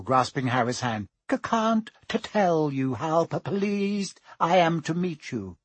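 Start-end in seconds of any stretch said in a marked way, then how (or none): 1.3-5.6 nervous stammer. Acted. Quirrell greeting Harry, nervous stammer. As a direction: stutter on the P, timid. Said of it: "stammered Professor Quirrell".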